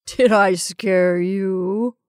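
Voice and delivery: slow, drawn-out teasing question; teasing man. Acted. Henry laughing at his sisters, teasing. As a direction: make light of their fright.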